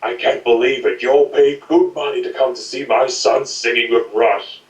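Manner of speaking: a lighter take on a borrowed impression, indignant; lightly voiced outraged father; Willem Dafoe voice. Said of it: "ripping up Jim Sterling's Willem Dafoe voice, but in a more lighter voice".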